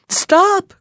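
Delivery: sharp high cry of "Stop!"; a shepherd's sudden cry; cried out. Acted. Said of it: "cried Muhammad".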